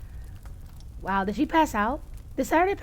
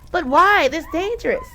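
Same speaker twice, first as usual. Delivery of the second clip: worried protest; 6 semitones higher than usual. Acted. Character worried plea.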